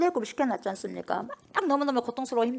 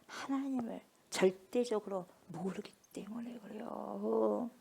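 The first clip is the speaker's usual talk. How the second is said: hushed whisper; 12 dB quieter, slower than usual. Real, not acted. Preacher drops to hushed aside.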